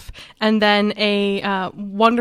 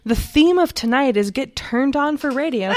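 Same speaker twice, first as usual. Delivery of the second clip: radio voice. Acted. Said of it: "Your radio voice when you say that".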